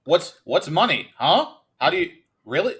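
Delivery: halting, rising questions in pretend cluelessness; mock bafflement. Co-host mocking a princess who can't buy stuff, mock bafflement. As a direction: play dumb, each question tipping upward.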